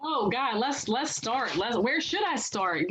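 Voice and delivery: hoarse, raspy voice; a scratchy raspy voice. Real, not acted. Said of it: "my voice is a little raspy".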